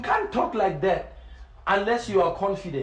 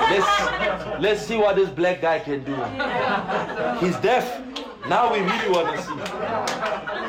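laughing mock challenge; slower than usual. Mocking the doubters while laughing.

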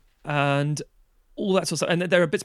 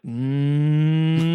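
doubtful hum; 4 dB louder than usual. Retold or imitated. Sceptical reaction to friend's claim.

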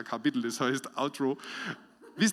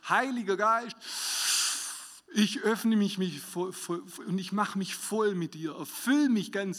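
prayer demo; 6 semitones higher than usual. Shown as a demonstration. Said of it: "und du sagst".

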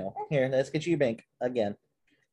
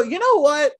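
loud, high mock exasperation; retold fed-up reaction; 8 semitones higher, 4 dB louder than usual. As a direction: announce you've had enough, louder and higher. Quoting own fed-up reaction.

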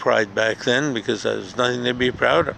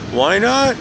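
emphatic why not; 9 semitones higher, 5 dB louder than usual. Real, not acted. Punchline on park noise.

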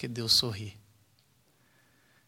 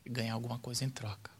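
hushed quote; 3 semitones lower, 6 dB quieter, faster than usual. Retold or imitated. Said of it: "Ela fala".

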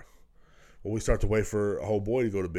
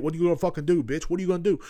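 mock taunt; 8 semitones higher, 4 dB louder, faster than usual. Taunting neighbor through window.

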